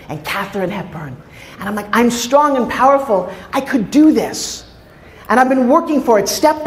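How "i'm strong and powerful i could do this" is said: slow, deliberate self-affirmation; measured, emphatic vow to yourself; retold pep talk. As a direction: space out each word with resolve. Acted pep talk to herself.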